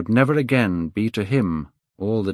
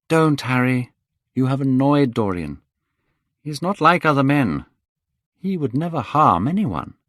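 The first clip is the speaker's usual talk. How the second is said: Hallward, protective; 6 semitones higher, 4 dB louder than usual. Acted. Hallward defends Dorian.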